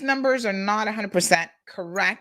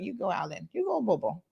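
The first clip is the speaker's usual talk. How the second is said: put-on Caymanian accent; 3 dB quieter than usual. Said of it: "that Caymanian accent".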